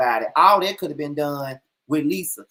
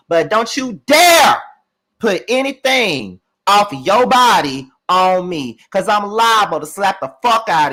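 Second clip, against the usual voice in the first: angry warning; 4 dB louder than usual. Real, not acted. Ranting at a castmate for getting physical, angry warning. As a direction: draw out each word as a heated threat.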